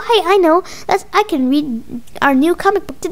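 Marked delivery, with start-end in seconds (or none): none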